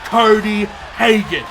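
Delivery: booming wrestling announcer hype; ring announcer. Acted. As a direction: sell each name to the arena.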